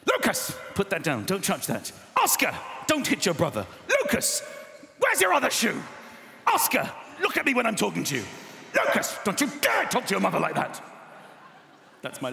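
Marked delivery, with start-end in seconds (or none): 0.1-10.8 exasperated parent yelling names; shouting at kids. Retold or imitated. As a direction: shout at the kids across the house. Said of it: "I just shout the names".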